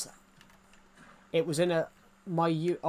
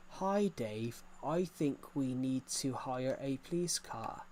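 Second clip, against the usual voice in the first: wooden script reading; slower than usual. Retold or imitated. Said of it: "you can tell he's reading".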